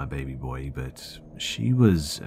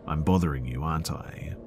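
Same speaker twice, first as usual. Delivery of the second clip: monotone annoyed. Retold or imitated. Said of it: "in her monotone, slightly annoyed voice".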